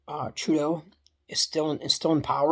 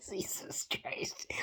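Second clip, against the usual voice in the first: whispered exasperation; 3 semitones higher, 19 dB quieter, much slower than usual. Real, not acted. Exasperated aside.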